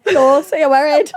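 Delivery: playful Swedish-accented imitation; exaggerated Swedish-style line; mock Swedish accent. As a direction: say it like a Scandinavian. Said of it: "I love the Swedish accent".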